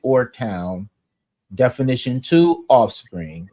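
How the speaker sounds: slow, measured reading of a dictionary entry; dictionary entry read aloud to the group. Shown as a demonstration. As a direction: read the old definition out deliberately. Reads 1828 Webster entry aloud.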